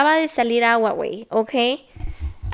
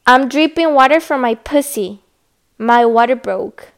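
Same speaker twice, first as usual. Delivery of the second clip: loud insistent English; 6 dB louder, slower than usual. Retold or imitated. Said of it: "I was like".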